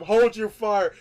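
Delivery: hammed-up shouted police order; mock order shout. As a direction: bark it like a cop in a panic. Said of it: "he told him".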